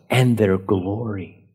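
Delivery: slow phrase landing on "glory"; stress on glory. Shown as a demonstration. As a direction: draw out "glory" deliberately. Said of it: "I kind of made emphasis on exceedingly, on all, and of glory".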